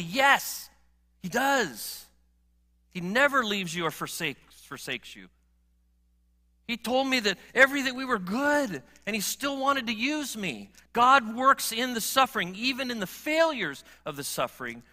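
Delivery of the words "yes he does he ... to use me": higher, louder emphatic yes, he does; a fisherman insisting with conviction; emphatic Peter. Retold or imitated. Peter insisting to the congregation that God still loves him, emphatically. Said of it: "And Peter says emphatically".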